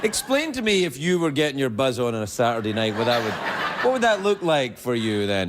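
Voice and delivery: laughing while asking; chuckling teasing question. Real, not acted.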